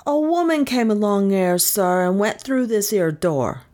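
dull, dazed policeman monotone; flat, mechanical report to a superior; monotonous constable. A narrator's reading. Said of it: "with a curious monotonous intonation".

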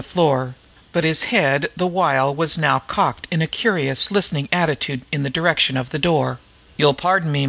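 measured, articulate audiobook reading; story narration. A narrator's reading. Gentleman pleading to help the White Mall, measured story reading. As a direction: read the story aloud with careful diction.

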